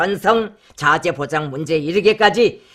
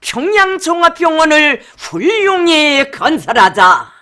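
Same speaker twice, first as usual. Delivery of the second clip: declaimed title; 6 semitones higher, 4 dB louder than usual. Acted. Announcer reads the speech title.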